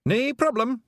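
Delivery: high, loud Scots pixie voice, eager to please; a wee Scottish pixie chirping up to Tiffany; Feegle pixie voice. Acted. Pixie telling Tiffany his long name, high and eager.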